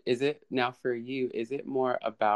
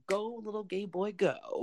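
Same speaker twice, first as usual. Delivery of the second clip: high, squealing cheer for a performer; cheering fan; 10 semitones higher, 5 dB quieter than usual. Retold or imitated. Imitating gay fans cheering on the video, high cheer. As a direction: egg him on like a thrilled fan. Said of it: "people like us who are like".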